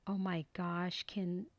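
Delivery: breathless whispered oh my gosh; hushed, amazed whisper; whispered awe. Real, not acted. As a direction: whisper it in delight. Awed by the crafting result.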